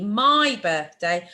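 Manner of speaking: "my" drawn out long before "birthday"; "my" stretched and emphasised; stress on MY. Shown as a demonstration. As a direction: slowly lean on "my". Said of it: "this is specifically for me".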